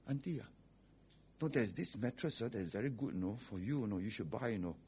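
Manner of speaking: pastor's wife selling. Retold or imitated. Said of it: "You know what the wife did?".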